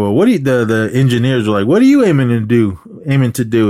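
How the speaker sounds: mock indignant demand; retold challenge. Engineers challenge the robber in retelling.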